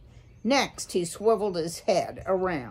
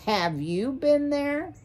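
high-pitched, rising, insistent question; shrill demand; 8 semitones higher than usual. A narrator's reading. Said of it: "Mister Ocax demanded shrilly".

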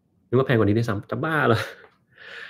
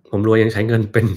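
loud read-out; 7 dB louder than usual. Acted. Reads viewer's teasing comment aloud.

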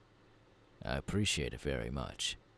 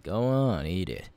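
urging push; 2 semitones higher, 5 dB louder than usual. Acted. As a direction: push him hard to just eat it. Pushing him to eat the fruit.

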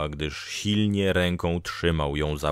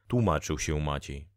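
plain reading voice

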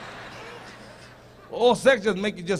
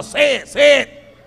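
slow taunt; 3 semitones higher, 4 dB louder, slower than usual. Pretend. Taunting laughing audience.

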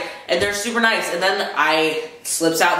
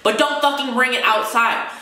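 heated, pitched up high without shouting; real anger pushing the voice up; venting fury at transphobes, pitched up high; mad rant; 6 semitones higher than usual. Real, not acted. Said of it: "It makes me so mad".

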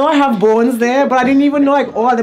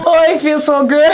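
hiccup giggles; 4 semitones higher, 3 dB louder than usual. Real, not acted. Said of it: "I can't stop laughing".

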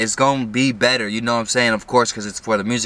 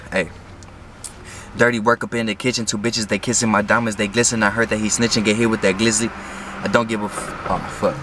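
rapping through a teeth grill; wearing teeth grill; faster than usual. Real, not acted. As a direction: spit bars around a mouth grill. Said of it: "I got my grill in".

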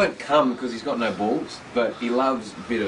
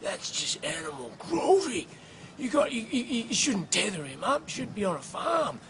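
angry lady; 9 semitones higher, 5 dB quieter than usual. Retold or imitated. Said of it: "this lady's just come out of nowhere and gone".

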